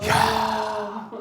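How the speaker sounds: a long, slow amazed "이야"; drawn-out amazement. Retold or imitated. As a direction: stretch it out in wonder. Astonished at the professor's words. (길게 늘여 감탄하는 "이야")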